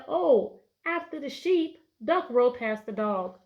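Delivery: upbeat example answer; eager model answer. Shown as a demonstration. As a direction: sound like a kid who just got it. Teacher models a student's answer.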